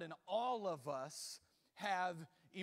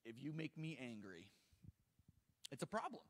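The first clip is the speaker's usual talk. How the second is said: quiet warning; 6 semitones lower, 8 dB quieter than usual. Real, not acted. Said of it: "I can get angry".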